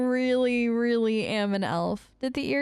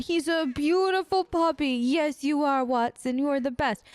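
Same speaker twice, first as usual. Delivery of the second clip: doting dog talk; 3 semitones higher than usual. Pretend. Praising her dog in the game.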